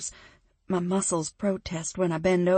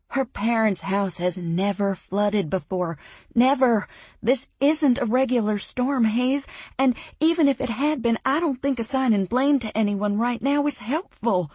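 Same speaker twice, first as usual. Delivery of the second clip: loud, sharp and higher; snapping; 4 semitones higher, 5 dB louder than usual. Acted. Narrator snapping at her boyfriend for blaming flood victims, loud. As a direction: cut him off, angry and defensive. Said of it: "I snap at him".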